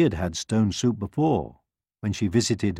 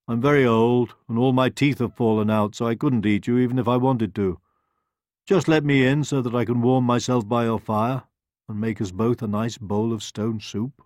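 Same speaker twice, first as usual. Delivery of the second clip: put-on coaxing old wolf, louder; 3 semitones higher, 4 dB louder than usual. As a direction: talk your way in.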